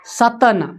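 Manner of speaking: सतना as two beats, सत-ना, with no "a" after त; सतना split cleanly as "sat-na"; no vowel after त. Shown as a demonstration. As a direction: close सत on the त, then say ना. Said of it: "टी के बाद उच्चारण नहीं है अ".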